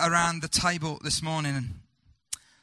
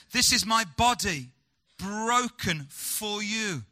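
solemn; slower than usual. Acted. Jesus' words, solemn and slow.

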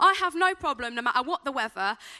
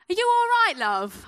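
higher, louder call to a stranger; concerned passer-by; 6 semitones higher, 5 dB louder than usual. Retold or imitated. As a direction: call out to check on someone. Woman calls from car window.

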